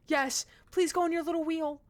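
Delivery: high pet voice. Real, not acted. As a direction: encourage the hamster sweetly. Baby talk to hamster.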